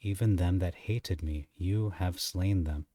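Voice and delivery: slow, deliberate scripture reading, slowing further at the end. Shown as a demonstration. Teacher reading a verse slowly to his students. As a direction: take each phrase slowly for the class. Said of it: "I'm gonna read it slow".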